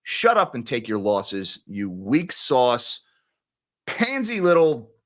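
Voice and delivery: heated, scornful telling-off; getting emotional. Real, not acted. Commentator berating traders who complain about losses, getting emotional. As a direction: scold them, drawing out the insults. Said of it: "I'm getting emotional now".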